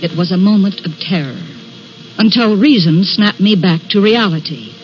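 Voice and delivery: measured, suspenseful storyteller's voice; dramatic story narration. A narrator's reading. Woman recalling the train roaring past, suspenseful narration. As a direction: narrate it over the music, building tension.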